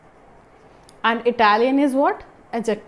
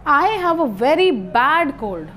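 "very" raised and leaned on; stress on very; 2 semitones higher than usual. Shown as a demonstration. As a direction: put the weight on "very". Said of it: "So this very is emphasizing".

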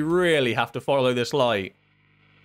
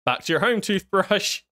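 odd prim voicing; 5 semitones higher than usual. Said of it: "Who talks like that?".

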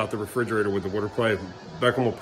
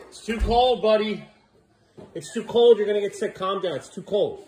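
higher, sing-song pet voice; talking to the dog; 9 semitones higher than usual. Real, not acted. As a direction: coax the dog, it's too cold.

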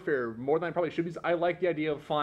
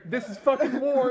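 giggly mock serious; 9 semitones higher, 6 dB louder than usual. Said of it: "and you're like".

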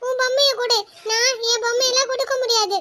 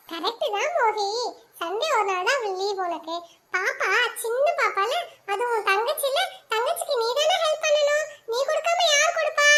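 gentle coaxing; 4 dB quieter than usual. Acted. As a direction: talk him round kindly. Aunt gently coaxes the boy. (பையனை மென்மையாக சமாதானப்படுத்தும் சித்தி)

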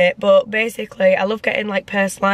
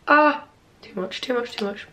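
stinging pain; 2 semitones higher, 3 dB quieter than usual. Real, not acted. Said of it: "it stings like a bitch".

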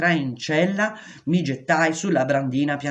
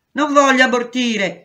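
much higher and louder, crying out a refusal; desperate shout; 9 semitones higher, 7 dB louder than usual. A narrator's reading. Pregnant prisoner refusing an abortion to the doctor, shouting. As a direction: hurl the refusal at him.

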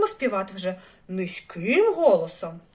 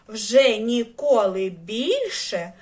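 other bear voice; much slower than usual. Acted. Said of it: "іншим голосом".

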